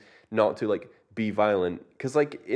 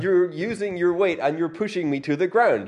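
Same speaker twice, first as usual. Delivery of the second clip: indignant disbelief; 7 semitones higher, 4 dB louder than usual. Retold or imitated. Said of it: "Jez is just going".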